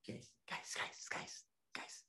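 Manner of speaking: very soft, voiceless whisper; whispered call. Pretend. Teacher secretly calling the class, whispered. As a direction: whisper for their attention.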